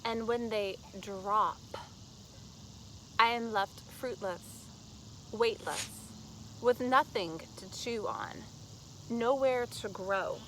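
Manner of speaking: slow, deliberate recital; poetry reading. Acted. Poet reads The Men I Love, slow deliberate recital. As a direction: let each short phrase stand alone, slowly.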